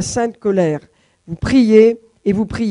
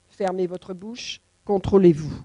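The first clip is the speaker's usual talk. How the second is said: much softer and slow, firm; quiet command; 3 semitones lower, 6 dB quieter than usual. Acted. Preacher telling the church to hold their tongue, hushed. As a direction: drop it low and slow like a warning.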